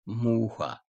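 "muha" said "MU-ha"; stress on U, not A. Shown as a demonstration. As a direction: stretch the U of "muha", let the A drop. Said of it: "Vurgu önemli. Vurguyu A'nın üzerine koyarsanız".

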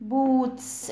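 "boots" with a drawn-out oo; long OO sound. Shown as a demonstration. Teacher joining the sounds for kids, "boots" with long oo. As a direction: blend "boots" whole, holding the vowel. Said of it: "ليها صوت طويل".

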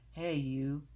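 loud grouchy challenge; ladybug voice. Acted. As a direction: bark it like a grumpy bug.

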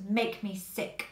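slow, harsh taunt; a touch of mock aggression; sharp tone. Shown as a demonstration. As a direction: jab out Make me sick with a sharp edge. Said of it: "You is quite a sharp tone of voice".

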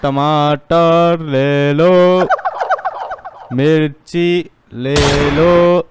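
slow, drawn-out hawker cry; street vendor call. Acted. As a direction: stretch each call like a market seller. Street vendor hawking vegetables.

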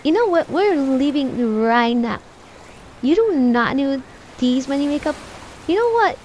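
loud, fed-up mom telling-off; acted angry ordering. Mother orders child to leave store, scolding angrily. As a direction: lay down the law loudly, playing mother.

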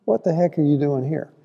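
God demanding with a touch of attitude; a mildly exasperated what the heck; a hint of a fed-up God challenging Elijah. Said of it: "I'm sure he said it with that attitude".

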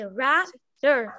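rather dito caindo, bem devagar; falling tune. Shown as a demonstration. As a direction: rather com entonação para baixo. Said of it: "Eu sei que eu fiz pra baixo". (entonação descendo)

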